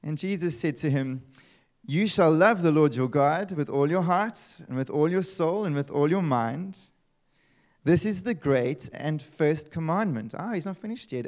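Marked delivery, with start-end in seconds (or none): 1.8-10.3 scripture reading. Acted. Preacher reads Jesus' words.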